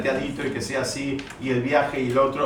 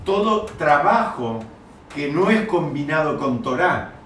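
slow, louder "Todo trabajo", each word weighed; stressed wording; 3 dB louder, slower than usual. Shown as a demonstration. Teacher to students, showing where the accent falls, slow and weighty. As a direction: lean on "Todo trabajo" slowly and a bit loud. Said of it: "¿dónde quiere poner el acento?".

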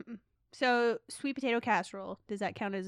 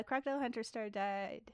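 reading aloud; 8 dB quieter than usual. Real, not acted. Reads out an article.

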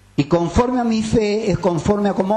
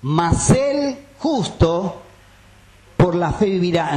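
"Mas el justo" drawn out very slowly, then "por la fe vivirá" at normal pace; slow emphatic verse; slower than usual. Shown as a demonstration. Preacher quoting Habakkuk to the congregation, slowly and emphatically. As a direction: stretch out "Mas el justo" for weight. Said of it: "como está escrito".

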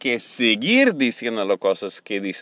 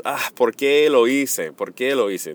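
lament. Shown as a demonstration. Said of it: "es un lamento".

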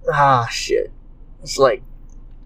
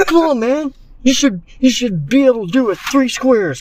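high-pitched; 10 semitones higher than usual. Acted. Acted scolding in bathroom.

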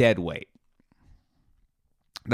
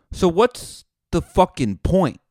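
exasperated outburst; 8 semitones higher, 6 dB louder than usual. Retold or imitated. Frustrated at useless Itchy.

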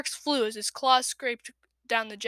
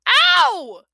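high, loud yelp of pain; 13 semitones higher, 12 dB louder than usual. A narrator's reading. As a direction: yelp as your tail is stamped. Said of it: "he yelled".

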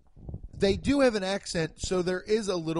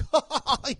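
mock laugh; 9 semitones higher, 4 dB louder than usual. Acting out the Google payout.

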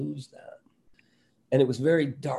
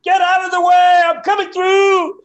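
much higher, much louder barreling shout; Robin Williams; 12 dB louder than usual. Retold or imitated. Robin shoving the nervous comic aside, huge high shout. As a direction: bulldoze through, yelling at full blast. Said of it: "And Robin's like".

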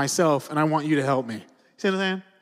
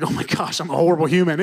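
self-reproach; 7 dB louder than usual. Retold or imitated. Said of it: "I was like".

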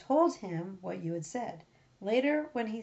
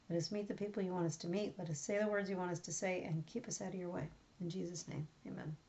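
soft, quick, earnest prayer voice; hushed closing prayer fading into amen; 2 semitones lower, 6 dB quieter than usual. Real, not acted. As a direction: pray softly and hurry the petitions along. Opening prayer before the reading.

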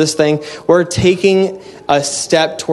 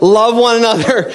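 sing-song love one another; 9 semitones higher than usual. Acted. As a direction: chirp it sweetly, tongue in cheek. Preacher playfully voicing sweet advice.

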